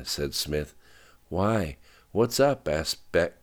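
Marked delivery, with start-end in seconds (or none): 1.3-2.7 sharp. A narrator's reading. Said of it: "much sharper now".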